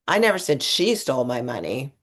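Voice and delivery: "I" lightly stressed first. Shown as a demonstration. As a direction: lean on the first word "I". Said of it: "I say".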